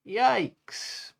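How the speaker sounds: high squeaky yelp of fright; mock fright. Pufferfish scared of the shipwreck, high mock yelp. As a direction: yelp it out, scared but playful. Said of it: "yelled Pufferfish".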